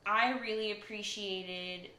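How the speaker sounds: hand over mouth. Real, not acted. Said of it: "sorry, I'm talking with my hand over my mouth".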